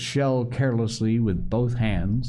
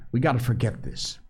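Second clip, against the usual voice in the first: fast, higher-pitched urging; urgent Piggy; 4 semitones higher, faster than usual. Acted. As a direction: hurry a friend into forgetting.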